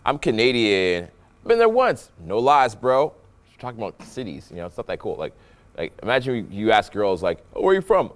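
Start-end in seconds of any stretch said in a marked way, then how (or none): 0.1-3.1 playful melody with a big lift on "once"; animated delivery. Shown as a demonstration. Coach demonstrating boring conversation with women, animated. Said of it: "Listen to my voice". 7.6-8.1 high, lively "oh" gliding down; hammed-up interest in small talk; animated. Shown as a demonstration. Coach imagining asking girls where they're from, animated. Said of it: "the whole thing is very animated".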